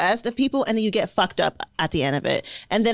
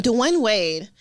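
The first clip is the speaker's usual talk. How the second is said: drawn-out fancy "Dwayne Wade", slow; fancy name pronunciation. Real, not acted. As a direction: say "Dwayne Wade" slowly and grandly. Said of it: "Why you say a name like that?".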